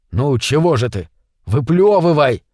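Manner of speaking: mildly impatient prompting; hurrying him. Acted. Митя urges his friend to spit out the fish, mildly hurrying. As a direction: urge him on, pushing a little on the order. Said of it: "поторопил его Митя".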